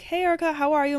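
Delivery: a hint of a doctor's sing-out hello; doctor's greeting. Doctor greeting a nervous patient, lightly imitated cheery hello.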